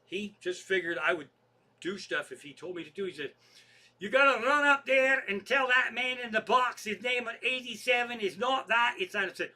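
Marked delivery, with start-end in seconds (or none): 4.0-9.3 higher, louder acted-out manager; retold bossy order. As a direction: bark instructions like an imitated tour manager. Manager barks an order in retold quarrel.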